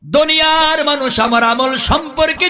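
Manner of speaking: very high, chanted preacher's cry; calling out. Acted. Youth reproaching the dead Kutubuddin, high chanted call. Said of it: "ডাক দিয়ে বলতেছে".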